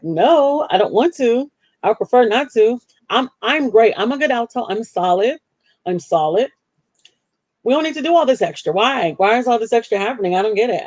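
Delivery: high, whiny retelling of her refusal; mock-plead your way out of it; high, pleading "I don't want to"; reluctant protest. Retold protest to pastor, whining.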